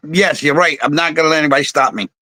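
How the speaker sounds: ordinary delivery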